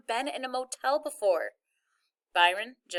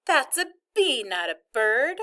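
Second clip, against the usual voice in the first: offended mother; 4 semitones higher, 5 dB louder than usual. Retold or imitated. Mama corrects the kid, offended.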